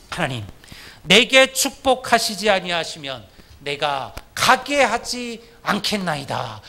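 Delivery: slow pleading prayer; Jacob's desperate prayer. Retold or imitated. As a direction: beg God slowly, holding on. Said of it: "이게 야곱의 기도였잖아요".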